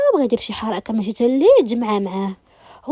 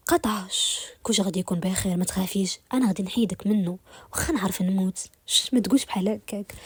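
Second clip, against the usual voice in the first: soothing reassurance. Acted. Man comforts his crying beloved.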